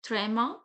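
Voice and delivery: trema as "tray-ma"; French accent name. Shown as a demonstration. Teacher naming two dots on E, trema as "tray-ma". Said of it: "We pronounced it trema".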